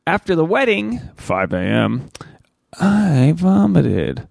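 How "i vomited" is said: slow, breathy whispered confession; a dramatic stage whisper, very slow; hushed whisper. Retold or imitated. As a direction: drop to a whisper and drag it out. Dramatic retelling of morning sickness.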